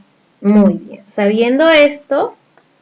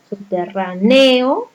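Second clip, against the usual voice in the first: subterráneo mis-stressed on the e, as subterranéo; wrong penultimate stress; slower than usual. Shown as a demonstration. Teacher testing subterráneo for pupils, stress wrongly on ne. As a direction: drag the stress onto the ne of subterráneo. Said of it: "Esta es la mayor fuerza de voz".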